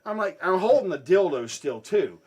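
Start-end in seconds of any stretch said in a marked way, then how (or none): none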